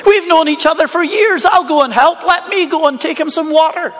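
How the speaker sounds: a touch of earnest eagerness, voice lifted; Lazarus volunteering. Acted. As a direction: lightly play a keen volunteer pleading to go. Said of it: "as though Lazarus is sort of there volunteering".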